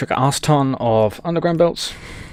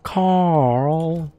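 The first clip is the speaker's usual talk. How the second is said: higher, exasperated drawn-out name; higher exasperated meme voice; 5 semitones higher than usual. Acted. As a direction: call the name in mock dismay. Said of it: "random knowledge of random meme".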